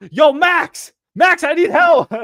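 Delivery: high, loud yell across the office; calling for help. Retold or imitated. Agent in over his head yelling to Max for help. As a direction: shout for Max like you're drowning.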